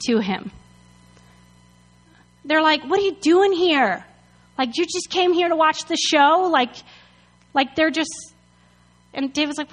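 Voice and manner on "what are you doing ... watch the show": higher, indignant challenge; mock-indignant scolding, pitched up; accusing. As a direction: demand it like annoyed older brothers. Brothers mock David in retold quarrel.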